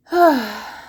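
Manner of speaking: a real out-of-breath sigh; breathless sigh. Real, not acted. To her viewers, winded from talking, a breathless sigh. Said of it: "Sorry, I'm getting out of breath".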